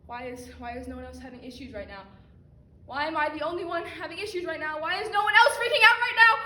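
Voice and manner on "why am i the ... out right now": building from strained to high loud alarm; rising panic. Acted. Lost in class, panicking louder and higher. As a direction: panic climbs with each question.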